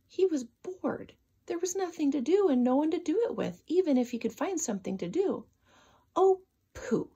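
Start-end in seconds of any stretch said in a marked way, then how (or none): 6.2-7.1 higher, unvoiced grumble. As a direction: kick the snow and grumble. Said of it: "he grumbled".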